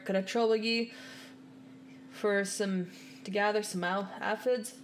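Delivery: put-on lightly done rustic British accent; a hint of a country stablehand. Chocobo keeper asking favour, lightly put-on rustic accent. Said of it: "The, the fucking accents".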